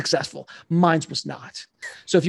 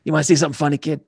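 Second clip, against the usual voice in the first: lightly voiced gangster buddy; repeating the line as Jimmy to show the voice; much faster than usual. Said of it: "that's my Jimmy voice".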